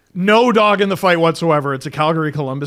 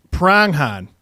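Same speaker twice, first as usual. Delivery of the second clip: Boston accent attempt. Shown as a demonstration. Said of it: "I gotta keep the first R".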